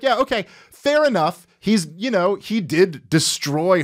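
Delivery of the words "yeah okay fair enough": lightly voiced defeated student; mock concession. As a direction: give in with a hint of mockery. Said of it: "And he'd be like".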